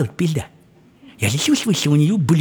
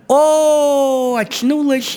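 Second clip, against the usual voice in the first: put-on much higher, louder girl's gasp; startled girl; 10 semitones higher, 4 dB louder, much slower than usual. Girl waking to find herself ravished, high startled cry. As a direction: wake up shocked in a high girl voice. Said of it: "Она говорит".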